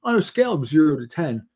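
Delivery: quick mock survey-taker patter; stilted survey question. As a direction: imitate someone reciting a questionnaire face to face. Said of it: "nobody talks like that".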